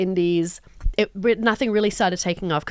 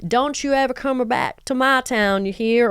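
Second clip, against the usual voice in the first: put-on Texas accent; 3 semitones higher than usual. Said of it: "like, a Texas accent".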